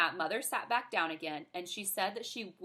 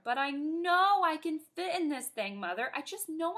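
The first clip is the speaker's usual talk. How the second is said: put-on high, eager child voice, lightly pleading; a small girl insisting to her mother; little girl pleading; 7 semitones higher than usual.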